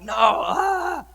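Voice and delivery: imitating his younger self shouting no in anger; retold angry outburst. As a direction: blurt out a furious teenage no. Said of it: "I was livid".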